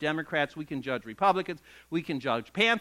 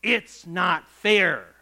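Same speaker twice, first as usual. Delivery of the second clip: slow whiny protest; 6 dB louder, much slower than usual. Retold or imitated. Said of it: "we say like the workers".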